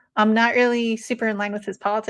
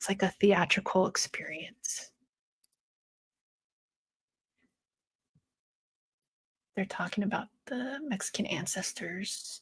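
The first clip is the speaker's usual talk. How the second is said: soft, breathy, hushed, very quiet whispered narration; 11 dB quieter than usual. Watching the big screen between fights, whispering. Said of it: "I don't know why I'm whispering now".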